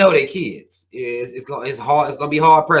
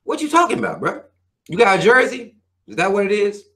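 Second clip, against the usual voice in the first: mocking disbelief; 5 semitones higher than usual. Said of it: "Motherfucker be like".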